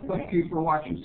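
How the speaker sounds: words muffled by a mouthful; mouth full. Real, not acted. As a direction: say it while still chewing. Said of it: "Sorry about my mouthful".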